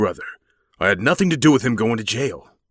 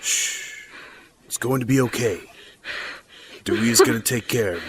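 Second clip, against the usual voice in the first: soothing reassurance; 5 semitones lower, 5 dB quieter than usual. Acted. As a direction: lower hush after the panic. Comforting a distraught partner.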